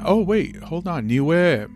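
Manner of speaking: sudden high surprised stop. Real, not acted. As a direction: catch yourself mid-sentence, surprised. Sudden discovery in listener data.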